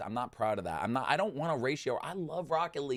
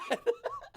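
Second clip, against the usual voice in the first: high exasperated laugh; a short disbelieving laugh; incredulous laugh. Real, not acted. Gamer laughing at his own anger, high incredulous laugh.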